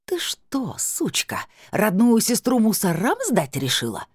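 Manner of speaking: put-on indignant drunk outburst; flaring up. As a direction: explode at her sister. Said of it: "взвилась Тамарка".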